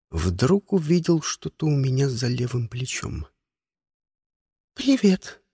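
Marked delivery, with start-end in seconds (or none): 4.7-5.4 high, lilting put-on greeting; falsely sweet high chirp; sing-song, unnatural voice. A narrator's reading. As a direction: sing it out in a voice not your own. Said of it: "каким-то не своим голосом пропела Диана".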